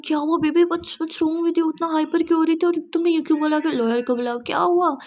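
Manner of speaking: fiancé fussing over his upset wife; worried questioning. Acted. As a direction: rush in fussing over her.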